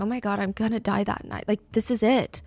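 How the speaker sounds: soft, hushed inner voice; understated fearful realisation; dread-filled thought. Retold or imitated. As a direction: think it aloud, softly. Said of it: "That's what she's thinking".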